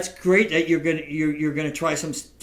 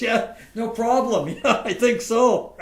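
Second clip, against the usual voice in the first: mock casual; 7 semitones higher, 4 dB louder, slower than usual. Playing it cool after a star's offer.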